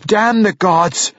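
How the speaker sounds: high, drawn-out angry outburst; explosive anger. A narrator's reading. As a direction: explode at your mother, stretching the words. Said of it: "Bruner exploded at her".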